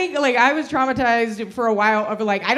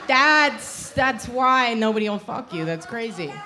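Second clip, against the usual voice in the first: women's knowing verdict; slower than usual. Retold or imitated. Women answer the lonely guys, knowing verdict. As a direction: deliver it as an obvious diagnosis. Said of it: "and we're like".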